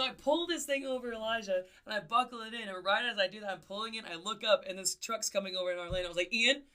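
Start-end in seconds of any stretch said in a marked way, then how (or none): 6.3-6.6 louder, higher alarmed calls of his name; alarmed calling out. Retold or imitated. Passenger calling to her brother driving, alarmed. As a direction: sound the alarm at the drifting truck. Alarmed at truck drifting into lane.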